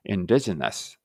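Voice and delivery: "indigenous" ending in an indistinct schwa; vague final vowel. Shown as a demonstration. Teacher explaining the spelled O, vague-vowel pronunciation. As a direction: blur the last vowel of "indigenous" between a, e and u. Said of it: "曖昧な音です".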